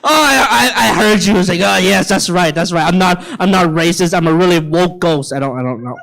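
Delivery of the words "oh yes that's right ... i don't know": lower, fading mock ghost voice; a lightly voiced nervous ghost; mock woke ghost. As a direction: play a sheepish ghost backing off, trailing to nothing.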